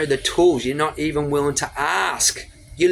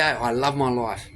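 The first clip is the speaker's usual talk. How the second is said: soft low affirmation; 5 semitones lower, 3 dB quieter, slower than usual. Shown as a demonstration. Coach showing viewers a sincere morning affirmation, softly. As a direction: lower and softer, slow and meant. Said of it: "And start your day".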